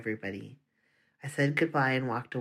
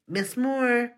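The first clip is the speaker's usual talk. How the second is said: high, loud call for the teacher; yelled name; 10 semitones higher, 4 dB louder than usual. Acted. Principal yells for the teacher outside. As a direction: yell her name through the door. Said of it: "Donato yelled".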